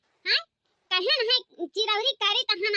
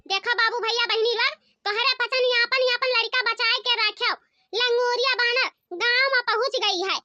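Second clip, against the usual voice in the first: public warning; 3 semitones higher than usual. Acted. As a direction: announce it to the whole village. Warns villagers about the monkey.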